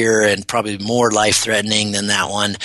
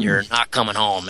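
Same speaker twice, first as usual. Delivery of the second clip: spooky inner voice. Retold or imitated. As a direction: echo the warning like a ghostly whisper in the mind. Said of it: "It was really spooky".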